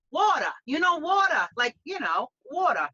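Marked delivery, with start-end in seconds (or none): 0.1-1.5 "water" as "wawtuh", falling tune; Bronx "water". Shown as a demonstration. Bronx groomer drilling the word for Brits, "water" as "wawtuh". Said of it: "from the Bronx if you say". 2.5-2.9 "water" as "wawtuh"; Bronx "water". Shown as a demonstration. Bronx groomer repeating the key word, "water" as "wawtuh". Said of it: "from the Bronx if you say".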